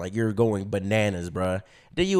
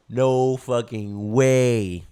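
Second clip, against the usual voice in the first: stunned disbelief; 3 dB louder, much slower than usual. Retold or imitated. Retold disbelief, slow.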